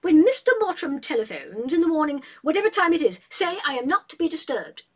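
airy, haughty instructions to the maid; Julia giving orders. A narrator's reading.

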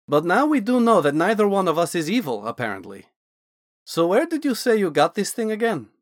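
a hint of an eager Dragonborn scholar; Naz the Dragonborn mage.

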